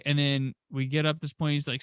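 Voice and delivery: normal talking voice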